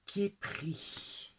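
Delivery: breathy unvoiced reveal of the card's name; hushed reveal. Real, not acted. Revealing the card to the viewer in a hushed whisper. Unveiling a new tarot card.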